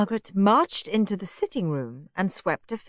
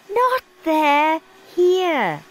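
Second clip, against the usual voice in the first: high, loud bossy order; a higher, louder bossy Margaret; bossy girl; 10 semitones higher, 5 dB louder, much slower than usual. A narrator's reading. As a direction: boss him about. Margaret bossing Henry.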